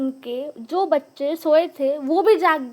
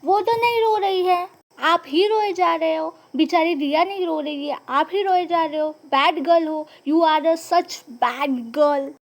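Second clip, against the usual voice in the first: scolding teacher. Retold or imitated. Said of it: "चुप कराने के लिए बोलती है".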